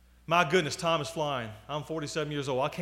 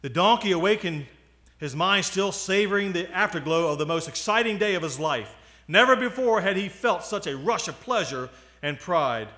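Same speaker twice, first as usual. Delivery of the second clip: lively, louder storytelling voice; story narration; 2 semitones higher, 5 dB louder than usual. A narrator's reading. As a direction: read the tale out with emphasis. Reads a donkey story.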